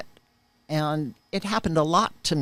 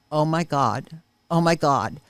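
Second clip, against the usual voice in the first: retold anguished outburst; 3 semitones higher, 3 dB louder than usual. Sister recognizing the house in the drawing, rising anguished cry. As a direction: voice climbing as the horror sinks in. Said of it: "she threw herself on the floor screaming and crying".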